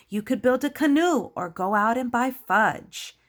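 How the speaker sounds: lightly voiced, animated pig sister. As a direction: coax the others out with swooping emphasis. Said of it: "And then Sister Pig".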